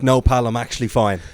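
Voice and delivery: mock-annoyed brush-off; retold testy refusal, a touch forceful; retold angry refusal. Passer-by turning on someone handing out flyers, mildly angry. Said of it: "Got so angry with you".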